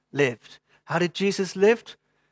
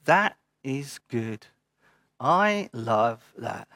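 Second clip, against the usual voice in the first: slow, soft and lower, savouring each word; gentle voice of God; 3 semitones lower, 4 dB quieter, much slower than usual. Pretend. Preacher voicing God to the congregation, slow and tender. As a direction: let it land like a loving father's blessing.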